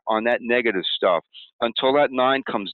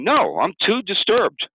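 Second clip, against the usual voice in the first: much higher, slow, whiny protest; a high, slow, mock-whiny inner voice; voice of the brain; 12 semitones higher, 4 dB louder, slower than usual. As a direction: whine it out like a sulking brain. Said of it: "the brain's going".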